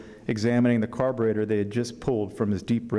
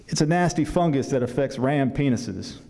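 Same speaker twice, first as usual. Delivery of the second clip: put-on southern accent; 2 semitones higher than usual. Grandfather vet warns the boy about pizzle rot, southern accent. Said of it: "apologize in advance for my southern accent".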